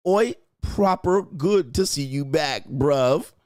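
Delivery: playful put-on British accent. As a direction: read it like a London bloke. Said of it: "In your British accent".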